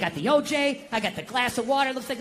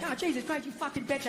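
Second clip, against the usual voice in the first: softer mock husband's grumble; muttered mock cursing; 8 dB quieter than usual. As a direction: grumble a curse under the talk, in jest. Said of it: "I don't, like, go like".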